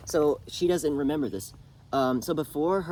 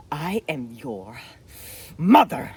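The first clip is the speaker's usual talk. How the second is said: slow start, then much louder on mother; building to a cry; 8 dB louder, much slower than usual. Retold or imitated. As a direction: drag it out, then burst loud on the last word. Mother confronting her son.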